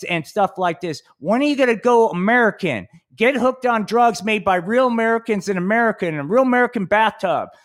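high, pushy cartoon superhero pitch; hammed-up mascot hero lecturing kids; Mighty Mikey voice. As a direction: preach at the kids like a hokey mascot. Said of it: "Mighty Mikey ... comes to town".

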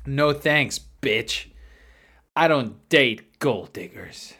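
imitated smug brush-off with a scoff. Prankster rejecting the gold digger, mock smug. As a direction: turn them down smugly, mimicking the prankster. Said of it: "he would smugly go".

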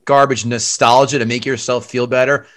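a teasing, sarcastic roast of the movie; sarcastic rant. Real, not acted. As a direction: scoff at him for loving nostalgia. Mock outrage at skipping the movie.

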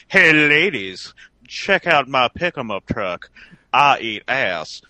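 slow, loud, drawn-out boast; slow show-off voice. Retold or imitated. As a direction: drawl it like a strutting peacock. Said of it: "he's trying to say".

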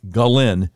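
Ghislaine with a silent S, almost like Glenn; correct pronunciation. Shown as a demonstration. Host showing listeners how her name is pronounced, Ghislaine almost like Glenn. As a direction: say Ghislaine with a hard G, ending like Glenn. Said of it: "the correct pronunciation sounds almost like".

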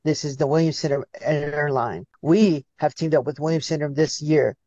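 cheerful in-flight welcome speech; flight attendant announcement. Pretend. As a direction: announce it like cabin crew over the PA. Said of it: "I would love for you to just keep going".

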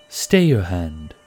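slow, carrying call. Acted. Warden calls to Otto not to shoot, slow call. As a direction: reach the archer behind you. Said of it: "Shiva called".

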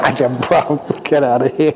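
laughing, teasing get out of here; playful scolding between laughs; mock exasperated monk. Monk tricked by the eye mask joke, laughing scold.

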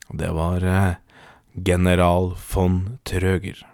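measured, deliberate storytelling; story narration. A narrator's reading. Podcast host introduces the general to listeners, measured storytelling. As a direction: tell it as a solemn tall tale. Reads out a comic tall tale.

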